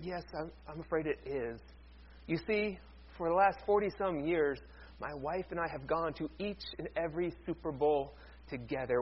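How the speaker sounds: put-on quiet, grieving old man; hushed and mournful, a lightly voiced widower; soft sad old man.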